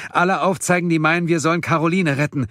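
calling out. A narrator's reading. Man forcing the group to vote, calling out. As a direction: press them hard for a vote. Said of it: "rief Erik wieder".

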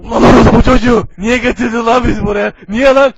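angry shouting. Pretend. Angry character voiced in game.

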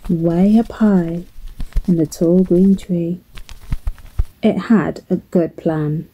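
gentle lilting storybook narration; measured storyteller with expressive emphasis; children's storytelling. Acted. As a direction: tell it to little ones, phrase by phrase.

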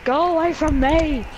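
panicked shout. Real, not acted. Chased by the monster again.

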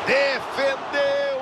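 excited save call. Acted.

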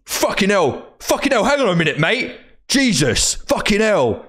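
high, exasperated swearing, imitating the opponent; mock exasperation. Beaten opponent swears at the river, high and exasperated. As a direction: ham up his disbelieving outrage.

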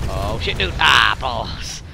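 raging gamer. Real, not acted. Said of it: "Do you just go".

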